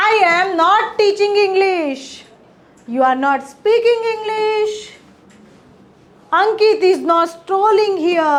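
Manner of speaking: very slow, clear dictation of each English word; teacher modelling English slowly; slow model sentences. Shown as a demonstration. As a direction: spell the sentence out slowly for learners. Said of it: "ચલો વાક્યો જોઈએ મિત્રો".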